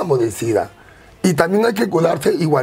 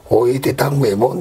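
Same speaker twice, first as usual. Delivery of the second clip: lightly voiced friend; 7 semitones lower, slower than usual.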